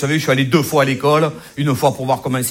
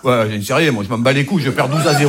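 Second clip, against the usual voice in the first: grumpy local; 4 semitones lower than usual. Retold or imitated. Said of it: "local answering reporter".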